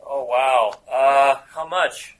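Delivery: lazy English stoner voice; English stoner accent. Acted. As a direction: drift through it like a mellow English stoner. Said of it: "It's English".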